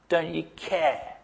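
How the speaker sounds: soft, slow broken question; quiet grieving plea. Retold or imitated. Grieving parent asking God, soft slow question. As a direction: let it sink in grief. Grieving prayer after lost pregnancy.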